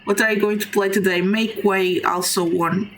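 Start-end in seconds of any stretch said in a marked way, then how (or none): 1.2-2.9 rough sore throat voice. Real, not acted. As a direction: speak through a sore throat. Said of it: "Sorry for my throat".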